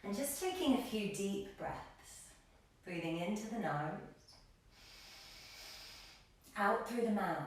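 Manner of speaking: calm, measured yoga-teacher cues; meditative breath instruction; guided breathing. Real, not acted. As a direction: guide them gently through a breath, leaving long pauses. Leads calming breathing in class.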